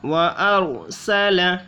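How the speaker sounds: वअरसल with a heavy, full-mouthed र; slow, recited वअरसल, the र heavy. Shown as a demonstration. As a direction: chant वअरसल slowly with a full र. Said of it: "रॉ को पूर्व पढ़ना है".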